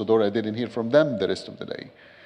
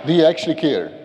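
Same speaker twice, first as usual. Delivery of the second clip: louder, higher pointed question to the room; emphatic challenge; 4 semitones higher, 5 dB louder than usual. Real, not acted. Preacher challenging the audience, loud and pointed. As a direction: press the congregation with it.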